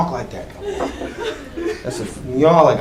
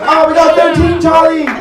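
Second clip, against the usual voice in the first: lightly voiced cartoon character; 12 semitones higher than usual. Cartoon voice continues.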